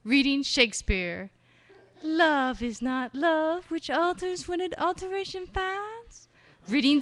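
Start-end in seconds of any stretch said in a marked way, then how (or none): 2.0-6.3 faux Southern accent. Shown as a demonstration. Poet reading Shakespeare, faux Southern accent. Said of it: "this last faux Southern harvest moon accent".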